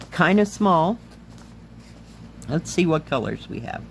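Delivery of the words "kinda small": hoarse, voice giving out; strained, tired throat; losing voice. Real, not acted. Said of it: "I'm losing my voice".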